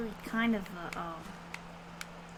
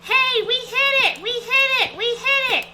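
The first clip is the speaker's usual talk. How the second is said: loud, high excited cheer; excited shout; 10 semitones higher, 10 dB louder than usual. Real, not acted. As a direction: yell it out in triumph. Reaching the bottom.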